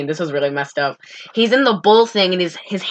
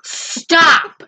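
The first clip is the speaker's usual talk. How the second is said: outraged stop; 8 semitones higher than usual. Real, not acted. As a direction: cut him off in mock outrage. Protesting co-host's wall joke.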